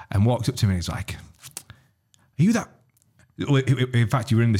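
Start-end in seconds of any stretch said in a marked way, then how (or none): 1.1-2.7 high, slow, hesitant fan voice; fan impression. An airport fan approaching the comedian, high hesitant voice. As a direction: ape the starstruck fan, way up high.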